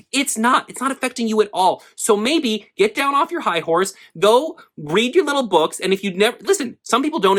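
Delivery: high-pitched, heated telling-off; worked-up rant. Real, not acted. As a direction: scold the critics, really riled up. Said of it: "all of these takes make me so angry".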